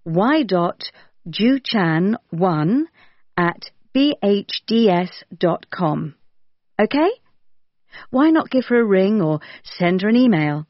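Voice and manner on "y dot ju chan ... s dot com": slow dictation. Shown as a demonstration. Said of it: "Her email address is y dot".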